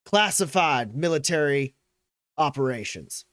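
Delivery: measured official accusation; McGarrett. Acted. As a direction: colonel formally listing the charges. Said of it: "uh, he goes".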